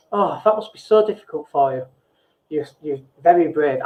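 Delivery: gentle, caring sympathy for someone struggling; sincere sympathy. Shown as a demonstration. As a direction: soothe them like you truly feel for them. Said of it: "you can say things like".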